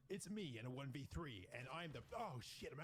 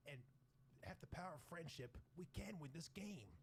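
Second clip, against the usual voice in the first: anime character voice; 2 semitones higher, 4 dB quieter than usual. Pretend. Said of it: "Talk like an anime character with me".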